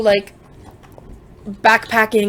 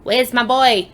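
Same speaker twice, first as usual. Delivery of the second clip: a self-admittedly weak attempt at an Irish accent; a passing stab at an Irish accent, half-hearted; 3 semitones higher, slower than usual. Shown as a demonstration. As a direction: try the line again in a clumsy Irish accent. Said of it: "But with, like, an Irish accent, which I can't really do".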